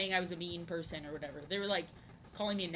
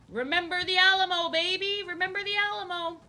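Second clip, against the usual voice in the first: high, loud rallying yell; battle cry; 11 semitones higher, 9 dB louder than usual. Acted. Streamer suddenly bellows a rallying cry at chat, high and loud. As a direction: belt it out like charging into battle.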